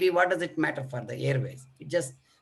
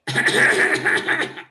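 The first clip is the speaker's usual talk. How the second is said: low intensity cough; 7 dB louder than usual. Shown as a demonstration. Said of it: "reduce the intensity of cough".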